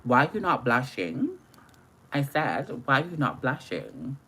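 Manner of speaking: lightly put-on British accent; a weak attempt at a London voice; bad British accent. To viewers, mocking her heavy blush, a bad British accent. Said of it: "That's my horrible U K accent".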